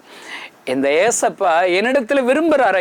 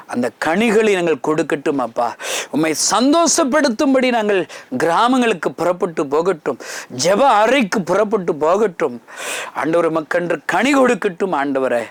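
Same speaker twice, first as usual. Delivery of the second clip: closing prayer. Real, not acted. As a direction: lead the congregation in prayer. (ஜெபத்தை நடத்தும் பக்திக் குரல்)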